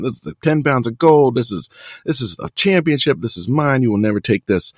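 high-pitched mock wrestling promo, easing at the end; imitated unhinged rant. Host imitating a wrestler pointing at his belt, mock ranting. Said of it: "Flair gives an absolutely unhinged interview".

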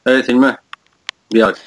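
hoarse from a cold; sick, husky hoarse voice. Real, not acted. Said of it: "hastalığımdan ötürü sesim boğuk gelebilir". (hastalıktan boğuk ses)

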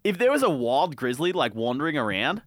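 incredulous broad Aussie; hammed-up Australian disbelief; put-on Australian accent. Concertgoer fretting over a wild grizzly, put-on Australian accent. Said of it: "in an Australian accent".

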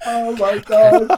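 slow, laughing gasp. Real, not acted. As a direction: breathe it out through laughter. Cracking up at a joke.

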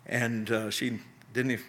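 real emotion, faltering and halting; choked up. Real, not acted. Preacher remembering his mother's hardship, getting choked up. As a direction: break off as feeling catches you. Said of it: "I get a little emotional".

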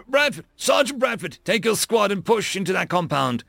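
high, urgent shout; calling out orders. A narrator's reading. Lieutenant sends his sergeant into the compound, shouting. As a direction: yell for the sergeant, then order her forward.

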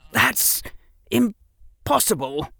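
ordinary delivery, nothing marked

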